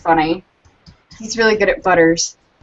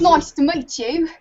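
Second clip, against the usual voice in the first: cockney try; 6 semitones higher than usual. Pretend. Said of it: "I can get really cockneyed with it".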